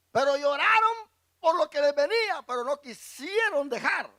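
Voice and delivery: high, loud pulpit cry; impassioned preaching. Acted. Preacher rebuking a weeping people, high and loud. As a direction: rebuke them with full force.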